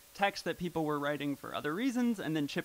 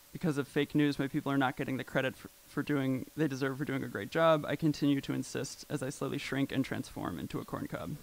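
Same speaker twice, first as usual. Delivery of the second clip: reading tweets; 3 dB louder than usual. Retold or imitated. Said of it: "plays a character that is, like, the worst possible forum poster".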